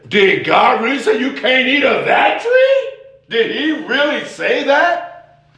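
a hint of a sly tempter; mild devil voice. Devil questioning God's word, lightly sly. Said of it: "The devil says".

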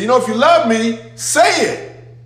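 lightly voiced as a needy lover fishing for words; mock pleading voice. Preacher mimicking empty love talk, high mock plea. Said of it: "he said".

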